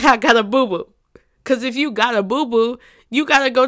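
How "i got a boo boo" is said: louder mock of the babyish phrase. Shown as a demonstration. Mocking the phrase to listeners, louder. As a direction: say it like the thing nobody grown says. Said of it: "You don't say".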